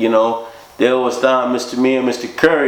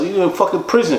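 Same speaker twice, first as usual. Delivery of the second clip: higher, incredulous retort; exasperated snap; 8 semitones higher than usual. Retold or imitated. Narrator answering Mike's question, incredulous and higher. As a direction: say it like it's obvious.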